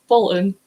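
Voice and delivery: "Bolton" with the T swallowed. Retold or imitated. Daughter insisting to dad there's no T, T dropped in "Bolton". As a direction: say "Bolton" leaving out the T. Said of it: "There's no T in it".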